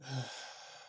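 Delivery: quiet, stressed exhale; real worn-down sigh; heavy sigh. Real, not acted. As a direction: sigh softly under the stress. Stressed, reluctant to go today.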